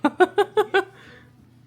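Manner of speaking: laughing through the words. Real, not acted. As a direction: laugh while talking. Laughing at own joke. (en riant)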